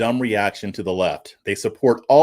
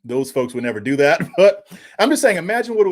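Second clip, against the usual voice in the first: laughing; 6 semitones higher than usual. Real, not acted. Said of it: "I shouldn't be laughing at this".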